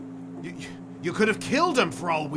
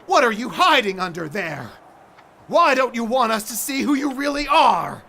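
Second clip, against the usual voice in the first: louder, accusing challenge; angry demand; 3 semitones higher, 5 dB louder than usual. Acted. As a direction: tear the truth out of her. Aspinwall angrily confronts masked figure.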